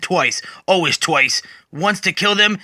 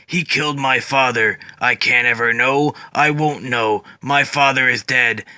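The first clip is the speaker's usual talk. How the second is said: low grieving voice; 4 semitones lower than usual. Acted. Grieving Swamp Thing replies.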